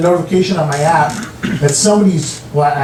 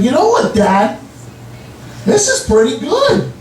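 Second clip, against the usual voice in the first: fake praise; 8 semitones higher than usual. Lying to spare his feelings.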